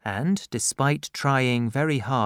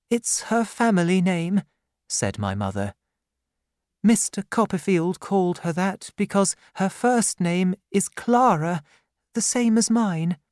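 put-on high, pleading young woman's voice; a frightened girl near tears; tearful young widow; 7 semitones higher than usual. The widow explains herself to the aunt, high and pleading.

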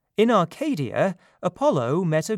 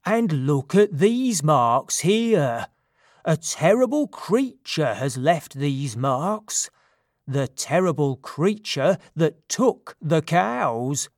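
wide-eyed satyr; 3 dB louder than usual. Acted. Silenus spooks himself over tracks.

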